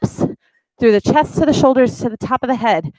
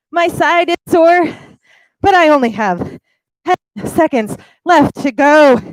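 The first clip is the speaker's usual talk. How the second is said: strained, straining through a plank hold; 5 semitones higher, 3 dB louder than usual. Real, not acted. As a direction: talk while holding a shaking plank. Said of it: "They're shaking so hard".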